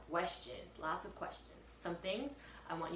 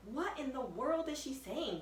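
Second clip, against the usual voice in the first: put-on puzzled boy; 7 semitones higher than usual. Jack wondering aloud.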